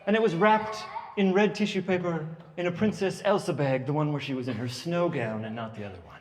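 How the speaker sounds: lightly voiced sweet little girl, prim and precious; a hint of a gushing six-year-old. Daughter thanking her aunt, a lightly done sweet little girl.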